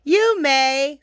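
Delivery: lightly voiced polite child; little girl. Little girl answers the wolf.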